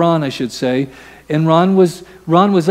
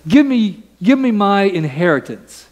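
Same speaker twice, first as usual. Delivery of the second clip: pitched-up, pushy demand for the inheritance; demanding younger son, voice pitched up; greedy demand; 6 semitones higher than usual. Acted. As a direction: grab at it like a spoiled son.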